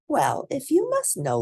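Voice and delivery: put-on high, bright girl's voice, a notch up; young heroine speaking up; little girl voice. A narrator's reading. Girl's voice in story.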